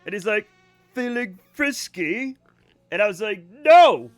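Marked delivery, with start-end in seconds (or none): 0.9-2.4 slow, leering, suggestive question; lecherous teacher. Retold or imitated. Creepy teacher leaning on her work table, slow mock leer. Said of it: "the most lecherous brumming". 3.6-4.1 sharp high shouted No!. Retold or imitated. Student shouting at the creepy teacher, high and loud.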